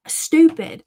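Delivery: put-on high, loud child's retort; imitated little boy. Mother quoting her son's favorite word, high and cheeky. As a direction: mimic a kid blurting a forbidden word. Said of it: "another word that he kept on saying".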